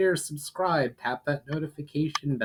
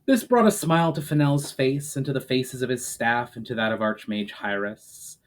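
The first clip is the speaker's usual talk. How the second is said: steady storybook reading voice; measured audiobook narration; story narration; 2 semitones lower, 3 dB louder than usual. A narrator's reading. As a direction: read the chapter like a storyteller. Author reads chapter aloud.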